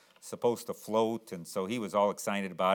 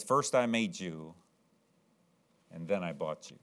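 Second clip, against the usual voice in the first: put-on tender boy; 4 semitones lower, 4 dB quieter than usual. Boy holding the boat he bought back, soft and tender. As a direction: murmur it lovingly to the boat.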